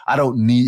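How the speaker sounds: mild mock smug tone on "I don't need"; mock narcissist. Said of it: "if you're in a relationship and they say".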